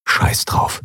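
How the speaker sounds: whispered thought to himself; inner thought. A narrator's reading. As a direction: hiss it inside your head. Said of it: "dachte er".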